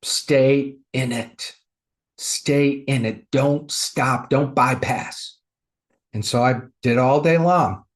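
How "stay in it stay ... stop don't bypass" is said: slow, deliberate, firm instruction; God. Retold or imitated. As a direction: stretch each command out steadily. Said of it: "I heard God go".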